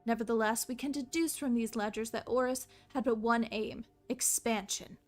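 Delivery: grand storybook reading; story narration. Acted. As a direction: narrate the history solemnly. Reading game lore aloud.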